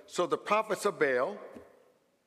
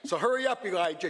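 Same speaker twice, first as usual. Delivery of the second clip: impatient crowd call; 3 semitones higher, faster than usual. Retold or imitated. The crowd urging Elijah to hurry, impatient raised call. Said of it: "I can hear the children of Israel saying".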